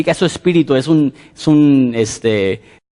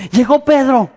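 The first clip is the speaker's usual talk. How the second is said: put-on excited little girl; 9 semitones higher than usual. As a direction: burst in with the news like a five-year-old. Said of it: "le dice a los que están adentro". (niñita emocionada anuncia a Pedro, voz aguda)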